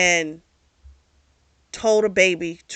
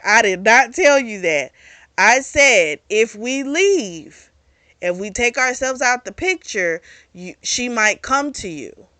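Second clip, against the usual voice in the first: emphatic denial; 3 semitones higher, 4 dB louder than usual. Retold or imitated. Acted denial in a quarrel.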